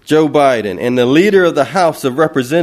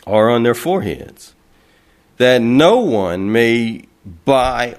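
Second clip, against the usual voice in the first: slow scripture reading; 3 semitones lower, slower than usual. Real, not acted. Reads Revelation verse slowly.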